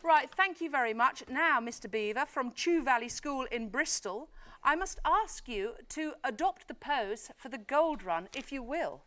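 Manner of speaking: upbeat host explaining the rules; game show host. Acted. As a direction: lay out the rules like a quiz host. Host explains the Gold Run.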